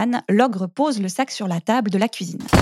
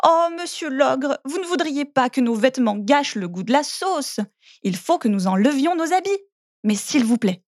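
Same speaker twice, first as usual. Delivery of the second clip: pleading; 3 semitones higher than usual. Acted. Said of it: "Mini Poussette supplie".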